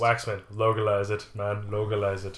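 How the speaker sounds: badly faked Jamaican accent; half-hearted go at a Jamaican accent; attempted Jamaican accent. Shown as a demonstration. Podcaster tries out Jamaican on co-host, bad Jamaican accent. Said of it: "my attempt at a Jamaican accent".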